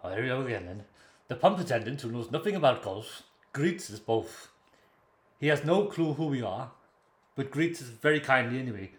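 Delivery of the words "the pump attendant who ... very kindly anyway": Welsh-sounding broadcaster impression; Terry Wogan. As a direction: tell it with a light Welsh lilt. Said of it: "do the Welsh voice".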